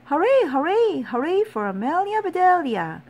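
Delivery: high, jubilant hurrahs; loud cheering. A narrator's reading. Grizzlies roaring for their winning player, high loud cheer. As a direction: cheer the hero at full voice. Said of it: "heard a loud roar".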